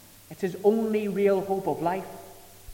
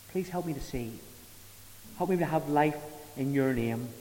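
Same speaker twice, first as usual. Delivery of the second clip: prayerful plea. Acted. Preacher leading the congregation in a plea for mercy, humble prayer. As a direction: pray it as a sinner asking mercy.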